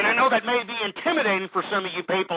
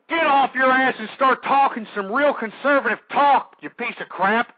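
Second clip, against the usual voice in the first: heated, punchy scolding; indignant on-air demand; angry rant; 3 semitones higher than usual. Real, not acted. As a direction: tear into a rival. Angry rant at a rival host.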